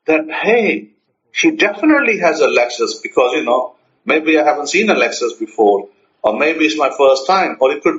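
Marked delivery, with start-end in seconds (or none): 0.3-3.0 mildly animated, keen to share; a touch of excitement to a friend; excited. Shown as a demonstration. Speaker telling a friend about the car, mildly excited. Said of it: "to my friend in excitement".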